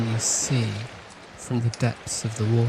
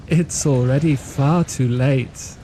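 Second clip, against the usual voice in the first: cold mother, amused. Acted. Mother in the dark mocking her son, slow taunting with a laugh. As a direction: taunt him that it is far too late. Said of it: "and she says".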